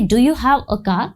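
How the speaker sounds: "Do you have a car?" said very slowly with a rising end; teacher spelling out a question for beginners; unhurried demo sentence; slow model question. Shown as a demonstration. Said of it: "तो आप बोलेंगे".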